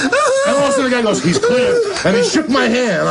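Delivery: high squeal of laughter; laughing reveal of the guard's words; laughing climax. Real, not acted. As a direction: crack up at the punchline.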